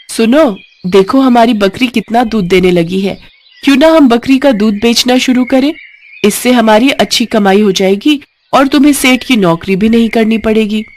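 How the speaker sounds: a wife pitching a happy plan; cheerful wife. Acted. Wife pleased with the goat.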